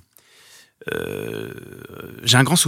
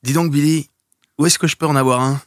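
put-on child voice; 6 semitones higher, 5 dB louder than usual. Re-enacting Gremlins scene as boy.

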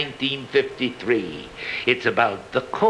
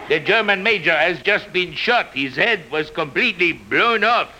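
higher, urgent, hammed-up alarm; breathless Renault; 8 semitones higher than usual. Renault rushes to warn Rick, breathless and higher. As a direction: blurt the news out of breath. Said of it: "breathlessly announced".

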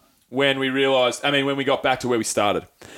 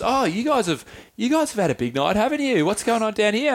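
put-on higher-pitched nosy old lady voice; imitated old woman; 7 semitones higher than usual. Old woman greeting drinkers in the gutter, imitated in high voice. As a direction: put on a chatty older woman's lilt. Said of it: "this old woman comes up to me".

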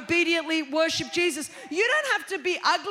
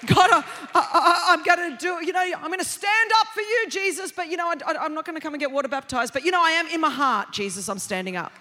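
mock pledge; 5 dB louder than usual. Mock halfhearted believer's pledge.

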